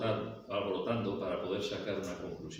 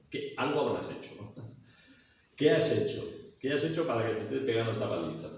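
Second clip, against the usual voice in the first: accusing interrogator. Acted. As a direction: press him hard, like a suspicious guard. Preacher voices Paul's accusers. (interrogador acusador, más alto y rápido)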